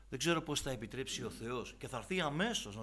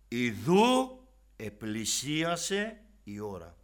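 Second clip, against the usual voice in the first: measured, raised reading of the Gospel; solemn scripture reading; 3 semitones higher, 9 dB louder than usual. Acted. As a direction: read the passage with gravity. Reads the Gospel aloud.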